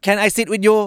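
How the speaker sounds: high, bright polite request; polite ask to sit. Acted. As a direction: ask a stranger for the seat sweetly. Asking to share a table. (ขอนั่งด้วยเสียงสูงสุภาพ)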